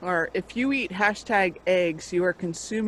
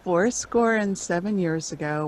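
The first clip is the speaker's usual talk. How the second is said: deep firm voice. Real, not acted. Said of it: "Yeah, your voice is deeper".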